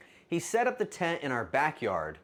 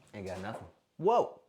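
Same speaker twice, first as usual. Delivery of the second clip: normal talking voice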